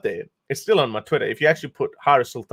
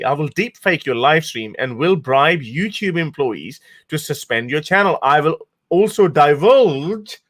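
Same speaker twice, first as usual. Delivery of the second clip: mock troll threat; 3 semitones higher than usual. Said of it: "He says".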